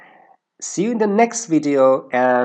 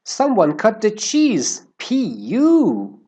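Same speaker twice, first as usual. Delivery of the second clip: mock disgusted; 10 semitones higher, 4 dB louder, slower than usual. Acting out an example line.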